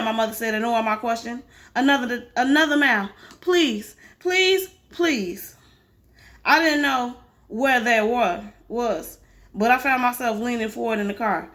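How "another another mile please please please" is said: desperate pleading. Acted. Mother pleads under strain.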